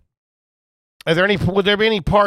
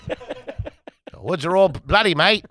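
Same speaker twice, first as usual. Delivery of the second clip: slow, badly faked Australian accent; much slower than usual. Shown as a demonstration. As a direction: draw it out in a wobbly attempt at Australian. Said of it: "I'll do an Australian accent".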